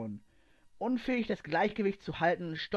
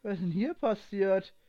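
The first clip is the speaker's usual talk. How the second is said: called out, a bit louder; loud question; 3 semitones higher, 4 dB louder than usual. A narrator's reading. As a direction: shout it into the room in shock. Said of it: "fragte Aslans Stimme laut". (laut gerufen)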